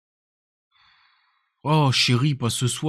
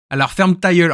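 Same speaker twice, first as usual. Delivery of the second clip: mock Québécois put-down; Canadian French accent; 3 semitones higher, 3 dB louder than usual. Streamer quoting the clip's punchline, Canadian French accent. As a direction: imitate a Québécois retort. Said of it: "quand il dit".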